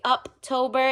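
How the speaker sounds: "October" pronounced UP-tober; Uptober pun. Shown as a demonstration. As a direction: open "October" with the word "up". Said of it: "it's going up".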